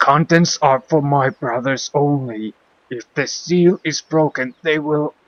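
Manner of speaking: crying out, voice crackling. Voicing a dying monk begging that the case not be opened: crying out, voice crackling. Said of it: "he cries out, his voice crackling".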